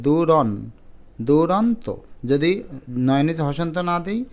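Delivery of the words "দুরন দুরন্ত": দুরন, দুরন্ত with the ন held back lightly; careful teacher's demo of দুরন্ত; light final ন. Shown as a demonstration. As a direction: sound out দুরন, then complete দুরন্ত. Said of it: "চাপটা কম পড়েছে".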